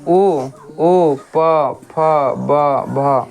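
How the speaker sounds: उ, उ, प, फ, ब, भ said slowly with both lips pressed together; lip sounds demo. Shown as a demonstration. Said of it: "ओठ के सहायता से बोल रहे हैं". (दोनों होंठ सटाकर साफ़ उच्चारण)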